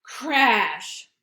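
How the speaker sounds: loud sound-effect word; mock crash. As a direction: smack the word.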